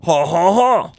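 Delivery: put-on laugh in caricatured French accent; stilted French-style ha-ha; mock French-Chinese laugh. Shown as a demonstration. Demonstrating a cross of Chinese and French, caricature accent laugh. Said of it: "a cross between Chinese and French".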